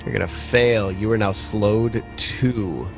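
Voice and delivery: usual speaking voice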